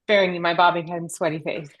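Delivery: breathless, mid-workout; out of breath. Real, not acted. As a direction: speak between heavy breaths. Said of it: "sorry, I'm out of breath".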